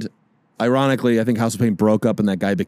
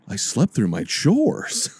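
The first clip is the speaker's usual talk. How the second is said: high dismayed voice; 11 semitones higher, slower than usual. Acted. Victim overslept chores.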